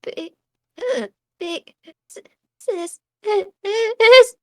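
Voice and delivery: slow, strained zombie rasp. Acted. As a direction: drag it out like a dying zombie. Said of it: "and she's like".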